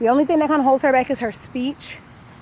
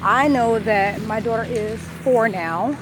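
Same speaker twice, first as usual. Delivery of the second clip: talking with a numb lower lip. Real, not acted. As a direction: numb lip after wisdom teeth. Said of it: "My lower lip is completely numb".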